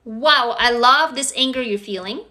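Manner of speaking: gently loving self-talk; uplifting. Shown as a demonstration. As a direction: welcome your own anger kindly. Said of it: "that's uplifting".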